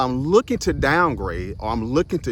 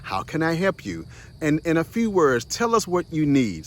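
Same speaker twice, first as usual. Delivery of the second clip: automated phone voice; 4 semitones higher than usual. Retold or imitated. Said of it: "you get the automated voice and the lady comes on".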